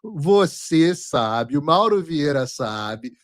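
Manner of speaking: slow, stretched-out taunt; drawn-out accusation. Real, not acted. Host telling the president he knows, slow taunt. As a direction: draw out every knowing word.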